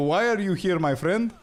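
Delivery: high, friendly mock Cypriot local; Cypriot accent. Local offering halloumi to a wedding guest in a Cypriot accent. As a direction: put on a hospitable Cypriot voice. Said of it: "That's so accurate".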